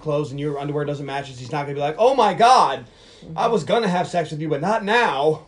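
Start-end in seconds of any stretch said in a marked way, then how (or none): 2.0-5.4 loud mock shock, a laugh at the end; hammed-up dismay; mock outraged guy. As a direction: play the shocked boyfriend big. Guy reacting to mismatched underwear.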